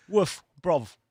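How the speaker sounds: "woof, bruv" with F and V for TH; mock London lad, "woof" for with, "bruv" for brother; British TH-fronting. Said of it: "You invented the language. The T H is quite clear".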